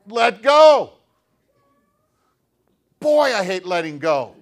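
ordinary talk

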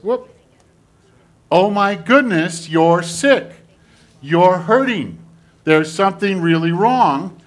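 high, loud puppet dismay; alarmed concern. Acted. Well hand finds the sick hand hurting, alarmed concern. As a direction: act out startled concern for someone hurting.

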